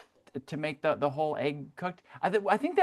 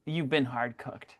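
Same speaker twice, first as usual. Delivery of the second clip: action movie catchphrase; 3 semitones lower, 3 dB quieter, slower than usual. Pretend. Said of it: "the line in it".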